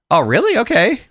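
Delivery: retold flattered, trusting reply; naive acceptance. Accepting a friend's compliment about his singing, naively pleased.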